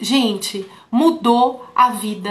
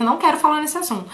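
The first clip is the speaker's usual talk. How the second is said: fast, slightly higher refusal; patient's curt refusal; 4 semitones higher, faster than usual. Retold or imitated. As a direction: rattle it off like a reluctant patient. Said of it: "Falou desse jeito". (recusa rápida e um pouco mais aguda)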